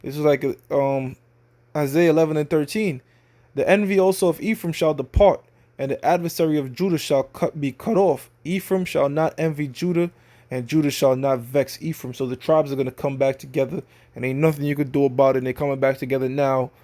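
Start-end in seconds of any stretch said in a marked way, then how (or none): 3.5-12.1 measured reading of a verse; scripture reading. Acted. Preacher reading Isaiah to his audience, measured. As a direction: read the prophecy like scripture.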